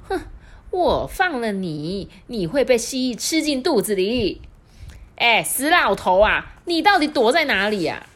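high, loud scolding granny; old wife hunting her husband; angry old woman. Acted. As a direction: yell for the old man.

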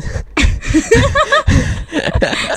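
bursts into high-pitched laughter; a long high laugh that falls away; high-pitched laughter trailing off. Real, not acted. Laughing at the innuendo.

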